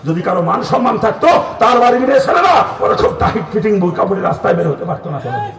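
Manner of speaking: high, loud pulpit rebuke; scolding shout. Real, not acted. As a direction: shout it in indignant reproach. Preacher scolding the listeners.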